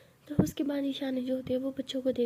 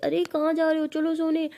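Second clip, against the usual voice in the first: put-on higher, louder mom calling kids; scolding mother; 4 semitones higher, 4 dB louder than usual. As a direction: send the kids to bed like their mom. (बच्चों को डांटती माँ)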